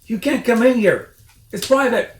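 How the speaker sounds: high, loud ratty shout; angry Rat. A narrator's reading. Rat shouts the intruders out of his cellar. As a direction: bristle like a territorial rat.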